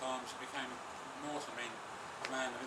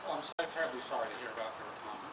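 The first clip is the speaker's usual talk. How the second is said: quick, lightly acted condolence; mock commiseration; faster than usual. Speaker imagines consoling retiring Peter, mock commiseration. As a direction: offer hammed sympathy at a brisk clip. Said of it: "you could commiserate and say".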